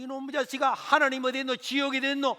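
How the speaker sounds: high, loud scornful shouting; mother angrily denying God to her son; mother's angry retort. Retold or imitated. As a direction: hurl the questions back in defiance. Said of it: "막 하는데".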